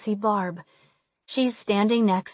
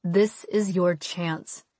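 gentle; 2 semitones lower, slower than usual. Acted. Will reassuring her.

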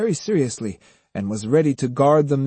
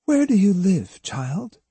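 softly; 8 semitones higher than usual. A narrator's reading. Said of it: "she asked softly".

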